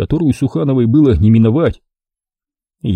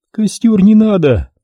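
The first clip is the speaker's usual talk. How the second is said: high, slow laughing reply; со смехом; laughing refusal; 11 semitones higher, 3 dB louder than usual. Acted. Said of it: "рассмеялась она".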